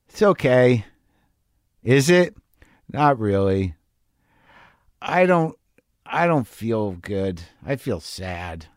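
put-on low, small and sinking voice of a sad kid; sad little kid. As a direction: let the child fade into quiet sadness. Inner seven-year-old voiced.

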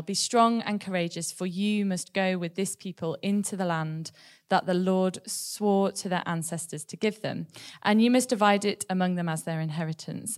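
slow, measured Bible reading; scripture reading. Acted. Reading Deuteronomy to the church, slow and measured. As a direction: read the verse steadily to the church. Reads a Bible verse aloud.

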